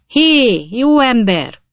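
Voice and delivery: high, loud calling out; loud, high-pitched holler; full-throated shout. A narrator's reading. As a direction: hail someone at the top of your voice. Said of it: "torka szakadtából rákiáltott".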